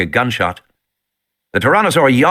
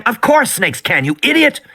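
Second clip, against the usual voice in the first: put-on boy shouting; 12 semitones higher than usual. A narrator's reading. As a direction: shout down at your little sister. Voicing Tim.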